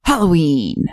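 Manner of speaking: low, ominous poster read; describing voice. Pretend. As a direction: read it like a spooky trailer. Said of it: "That's my describing voice".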